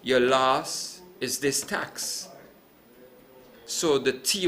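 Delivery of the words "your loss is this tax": slow, weighty, each word set down; slow quoted verdict. Retold or imitated. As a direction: quote the accountant's verdict slowly, like a final ruling. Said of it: "and he says".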